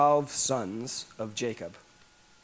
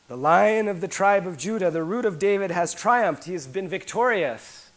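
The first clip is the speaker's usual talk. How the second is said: triumphant proclamation; 3 semitones higher, 4 dB louder than usual. Acted. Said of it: "Because the Lion of the tribe of Judah".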